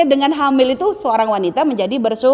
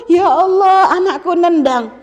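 a mother choking up at the first kick; moved to tears; 4 semitones higher, slower than usual. Retold or imitated. Pregnant mother feeling the baby kick, tearfully moved. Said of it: "nangis terharu".

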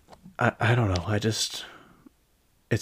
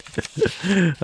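a short burst of real laughter, breaking out partway through; laughing at her own funny notes; 9 semitones higher than usual. Real, not acted. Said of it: "I'm just laughing at my own notes".

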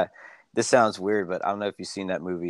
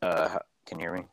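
gargly muffled audio; like talking through water; underwater; 3 dB quieter, much faster than usual. Real, not acted. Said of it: "you're still gargly".

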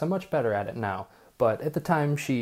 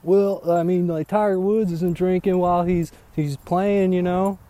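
Southern redneck; 6 semitones higher than usual. Retold or imitated. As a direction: imitate a defensive Southern golf fan. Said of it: "you guys are, like, all Southern rednecks".

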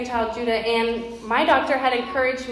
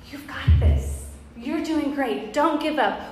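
encouraging whisper; 2 semitones higher, slower than usual. Retold or imitated. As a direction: whisper courage to someone struggling. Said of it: "God is saying to us".

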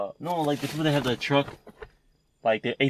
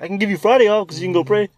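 high, loud mock boss; 8 semitones higher, 8 dB louder than usual. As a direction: play the boss turning him down.

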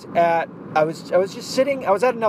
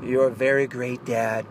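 Donald Trump voice; 3 semitones lower, slower than usual. Retold or imitated. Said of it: "I can't do his voice very well".

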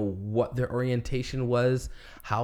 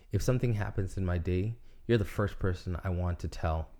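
sweet nothings; 3 semitones lower than usual. Pretend. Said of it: "ask you in a better way".

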